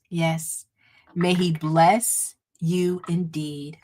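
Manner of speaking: measured benediction with pauses between phrases; spoken blessing. Real, not acted. Host blessing viewers and their families, solemn benediction. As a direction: bless them solemnly, line by line.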